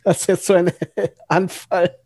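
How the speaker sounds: high, laughing through the words; giggling while explaining; cracking up mid-line. Real, not acted. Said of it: "ich muss grad lachen".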